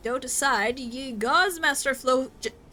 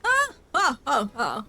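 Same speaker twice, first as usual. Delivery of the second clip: mock sobbing; 4 dB louder than usual. Mock sobbing over memories.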